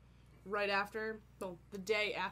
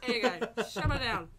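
put-on Boston accent; 3 semitones higher, 8 dB louder than usual. Mock Boston guy.

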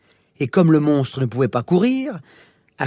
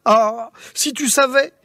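furious scolding; 5 semitones higher than usual. Acted. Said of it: "Furieux, le roi la gronda".

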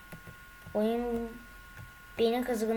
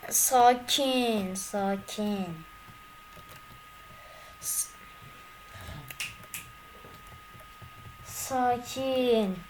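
calming himself down; much slower than usual. Real, not acted. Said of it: "Sakin olacağım".

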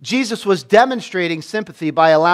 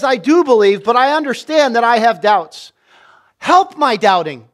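earnest plea; 5 semitones higher, 5 dB louder than usual. Retold or imitated. Father's plea voiced in sermon.

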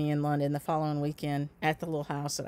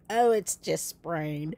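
slow mock-casual brush-off; dismissive; much slower than usual. Imitating ex-husband waving off her injury, slow and dismissive. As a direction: shrug it off like it's nothing. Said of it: "And he was like".

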